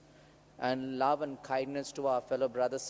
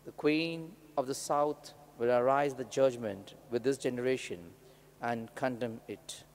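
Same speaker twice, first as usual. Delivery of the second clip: measured, solemn gospel reading; scripture reading. Real, not acted. Priest reads the gospel aloud.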